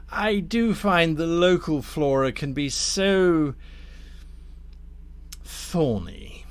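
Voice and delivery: deliberate, insinuating tempter; lightly voiced scheming Damnifer. Damnifer pitches a grafting scheme to Thorn, lightly voiced courteous schemer. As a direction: unveil the offer with relish. Game master plays Damnifer.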